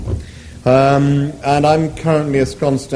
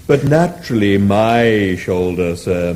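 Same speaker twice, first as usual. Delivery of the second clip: lower, lilting contented mooing; 4 semitones lower, slower than usual. Acted. The animal answers Arthur, lightly voiced contented mooing. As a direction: moo it out, pleased with yourself. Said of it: "mooed the animal contentedly".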